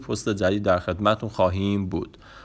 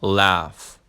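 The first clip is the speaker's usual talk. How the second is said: very slow, with a pause before "laugh."; slow teaching demo; much slower than usual. Shown as a demonstration. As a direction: draw out "Don't make me", then land "laugh.". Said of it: "پس گفته مجبورم نکن که بخندم". (آهسته، با مکث پیش از laugh)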